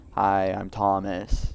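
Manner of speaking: low, slow "Hi, I'm Thomas" with no lift; deadpan. Shown as a demonstration. Player trying a deadpan voice for the reporter, slow and low. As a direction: drop the charm, say "Hi, I'm Thomas" dead flat and slow. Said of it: "a deadpan voice".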